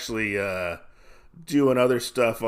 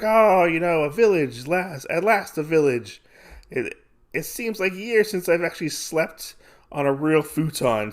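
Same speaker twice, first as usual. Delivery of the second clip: sigh-of-relief words in a raised pitch; acted relief; 6 semitones higher than usual. Traveling hero finds a village at last, relieved.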